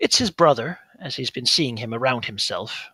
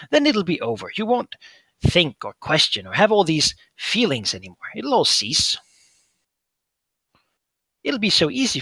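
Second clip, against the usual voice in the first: tempting creature voice; 5 semitones higher, 4 dB louder than usual. Acted. GM as Fingermuncher luring Gesh onward, higher coaxing voice. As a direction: sweet-talk him toward the end.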